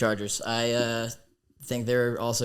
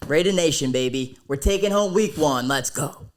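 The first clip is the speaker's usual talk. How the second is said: excited; 3 semitones higher, 7 dB louder than usual. Real, not acted. Fan cheering for his team.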